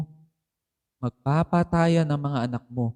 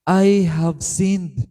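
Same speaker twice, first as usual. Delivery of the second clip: broken confession; 3 semitones higher, 7 dB louder, much slower than usual. Acted. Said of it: "Walan siya ng lakas".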